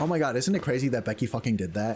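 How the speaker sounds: ordinary talk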